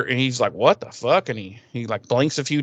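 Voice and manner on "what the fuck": mildly startled questioning; lightly acted confusion, rising at the end; retold bewilderment. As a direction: ask it in puzzled disbelief. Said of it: "he kinda stutter".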